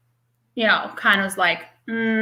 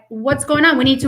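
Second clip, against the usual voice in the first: firm parent pressing for answers; retold no-nonsense questioning; strong and firm; 3 semitones higher, faster than usual. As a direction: confront firmly without attacking. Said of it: "being strong and firm".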